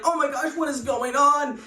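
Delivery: half-acted freak-out; retold scream. Sister in the tent shrieks in mock panic. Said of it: "She's screaming like".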